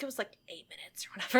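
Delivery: fast, whispered through a laugh; casual nurse. Retold or imitated. Retelling the movie nurse shrugging it off, fast laughing whisper. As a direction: toss it off while laughing. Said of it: "and she's like".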